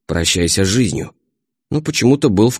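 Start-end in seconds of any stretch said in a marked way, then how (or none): 0.1-1.1 a hint of low menace; lightly voiced threat, slightly lower; sinister voice. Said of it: "он зловещим голосом произносил". (зловещим голосом, слегка)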